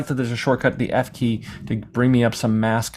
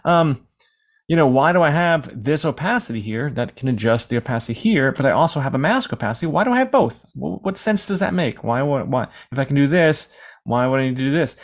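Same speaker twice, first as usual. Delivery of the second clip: exasperated questioning, peaking higher on 'Why do I have both'; mock confused viewer; 4 semitones higher than usual. A confused viewer questions the teacher, hammed-up bafflement. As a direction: play the baffled student who can't see the point. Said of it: "you may ask yourself".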